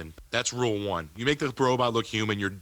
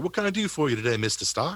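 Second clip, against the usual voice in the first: high, pitched-up, put-on British accent; 5 semitones higher than usual. Discussing Vision serving Tony Stark, the speaker voices him: Paul Bettany British impression. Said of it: "That's my British impression".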